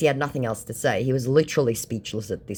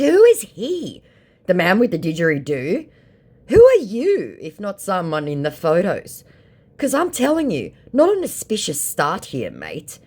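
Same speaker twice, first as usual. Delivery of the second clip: incredulous; 7 semitones higher, 6 dB louder than usual. Retold or imitated. Her reply, sharpened.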